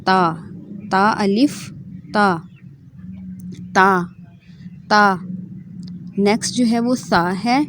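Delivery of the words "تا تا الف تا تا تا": تا said softly and thin, tongue tip on the upper teeth; a light, unheavy تا; soft letter demo. Shown as a demonstration. Teacher showing students a soft تا. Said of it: "اس کو بھی نرمی سے آپ نے ادا کرنا ہے".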